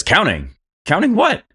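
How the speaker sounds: startled quartermaster. Acted.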